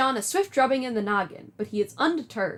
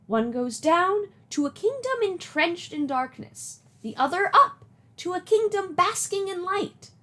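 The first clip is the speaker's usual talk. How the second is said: Nana voice. Acted. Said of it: "Do you like my Nana voice?".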